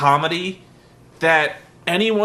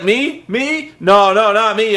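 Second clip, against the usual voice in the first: high, loud, jumpy protest; mock panicky refusal; 7 semitones higher, 5 dB louder, slower than usual. Mocking a wrestler dodging his turn. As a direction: back away in mock panic. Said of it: "he's like".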